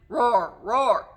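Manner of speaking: two loud sung-out roars; lion roars. Shown as a demonstration. Teacher leading lion verse, loud rhythmic roars. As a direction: roar twice on the beat. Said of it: "hear the lions roaring".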